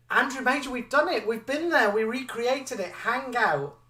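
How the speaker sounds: high, loud, delighted reply; excited announcement. Real, not acted. Presenter answering a viewer's request for a re-creation, excited.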